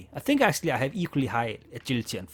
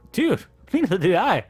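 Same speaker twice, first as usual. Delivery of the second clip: laughing reply; 6 semitones higher, 8 dB louder than usual. Real, not acted.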